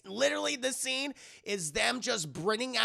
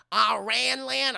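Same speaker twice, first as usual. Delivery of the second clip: louder, higher, drawn-out disbelief; mock outrage; 5 semitones higher, 6 dB louder, much slower than usual. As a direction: stretch it out in loud mock alarm. Character misunderstanding Ireland, incredulous.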